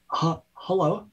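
nervous stranger asking for help; timid lost creature. Acted.

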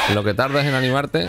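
shouting at the enemy; shouted taunt. Real, not acted. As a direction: yell it out, impatient. Taunting a slow enemy in game.

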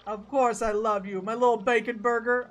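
lightly voiced boyfriend, loudly reassuring; placating boyfriend. Lovers' quarrel in game dialogue.

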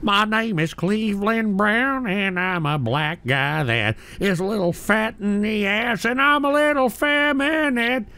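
a hint of a sleepy cartoon dad; mocking the caller's Cleveland Brown bit, slow and lightly put on. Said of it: "that fucking Cleveland Brown bullshit".

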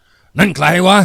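loud, high, drawn-out shout into the dark; bellowing challenge. A narrator's reading. Village headman bellowing at a figure in the dark, loud and drawn out. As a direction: roar it out at a shape in the dark. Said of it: "แกแผดเสียงร้องออกมา".

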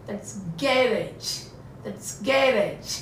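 teacher spells out garage sound by sound; slow model pronunciation. Shown as a demonstration. Teacher models the word for her class, slow and careful. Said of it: "pronunciation बहुत मायने".

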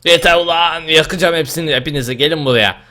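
angry. Real, not acted. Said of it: "Çok sinirlendim".

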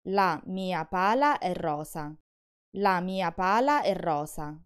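pala and rosa with short single l and s; slow, keep pala and rosa short; wrong-meaning single consonants. Shown as a demonstration. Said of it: "I tell that my shovel is pink".

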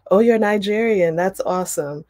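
light up as if meeting someone happily; beaming. Retold or imitated. College classmates greeting Lovey's last name, mock beaming delight. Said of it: "they beamed".

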